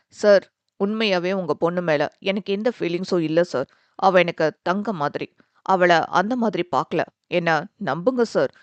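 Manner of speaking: put-on pleading young man. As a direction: beg him to believe you.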